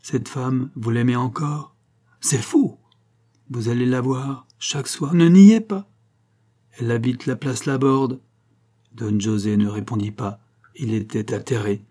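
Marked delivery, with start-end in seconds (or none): 0.0-8.2 sharp rising accusation; accusing. Acted. Banco accuses Don José of seeing Fatima nightly. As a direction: catch him in his lie.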